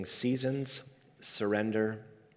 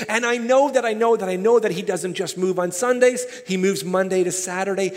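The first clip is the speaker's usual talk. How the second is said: raised, insistent preacher's delivery; impassioned preaching; 6 semitones higher, 7 dB louder than usual. Real, not acted. Preacher urging the church off the bench, impassioned. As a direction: press each point home to the congregation.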